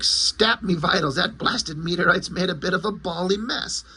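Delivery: hammed-up British comic-book voice; mock-British exclamation, stagey and indignant; proper British accent. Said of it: "like, proper British accent".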